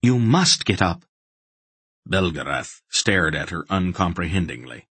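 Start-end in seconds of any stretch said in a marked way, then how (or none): 0.0-1.0 higher, firm sharp order. A narrator's reading. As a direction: cut through his daze. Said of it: "Aunt Paul said sharply".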